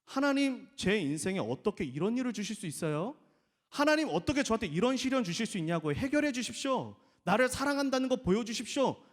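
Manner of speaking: the wrong prayer, full of complaint; mock complaining plea; grumbling prayer. Shown as a demonstration. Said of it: "우리가 하는 기도의 실수처럼".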